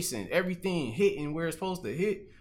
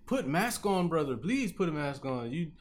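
imitated pleading; 5 semitones higher than usual. Gas station man begging a customer to mask up, imitated pleading. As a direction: plead like a worried store clerk, playfully.

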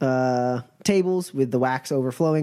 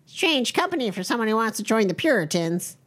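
higher, suspicious cult member; pitched-up wary zealot; puritan woman voice; 8 semitones higher than usual. Acted. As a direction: eye the strangers with distrust. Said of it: "she's like".

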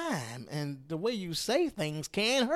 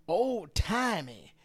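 drawn-out mock; 2 semitones higher, much slower than usual. Mocking the GOP as old-fashioned.

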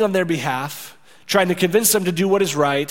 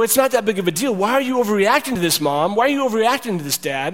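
lightly voiced kid protest, higher pitched; 4 semitones higher than usual. Twelve-year-old downplaying it to Mom and Dad, mildly protesting. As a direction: push back at the parents in a higher voice. Acting out kids downplaying to parents.

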